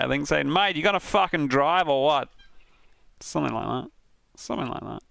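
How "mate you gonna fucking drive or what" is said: lively mock Australian driver; imitated Australian accent. Relaying an Australian driver's voice clip in an Australian accent. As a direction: put on an Aussie bloke's accent. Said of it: "It was an Australian guy".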